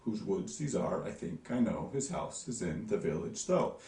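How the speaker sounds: "Whose woods these are" in a gentle da-DUM beat, lifting on "though"; iambic reading. Shown as a demonstration. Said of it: "you hear it goes up on the end".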